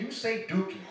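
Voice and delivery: loud, insistent Dookie. Shown as a demonstration. Comic insisting the teacher say "Dookie" loud. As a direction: belt out Dookie like you mean it. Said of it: "You say it, and you say it loud".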